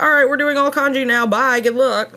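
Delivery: high, fast brush-off; mock careless goodbye, quick and high; careless teacher quote. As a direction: toss it off like a lazy teacher. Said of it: "just be like".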